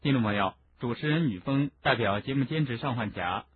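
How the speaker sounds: understated programme outro after the story; radio sign-off. Real, not acted. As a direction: read the closing credits quietly. Host reads programme sign-off.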